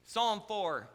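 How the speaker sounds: normal talking voice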